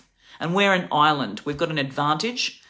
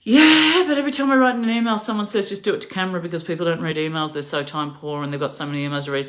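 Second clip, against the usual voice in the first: excited retelling; faster than usual. Retold or imitated. Telling Jess about emails, fast and keyed up. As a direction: rush it out, all eager. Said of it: "And I'm like".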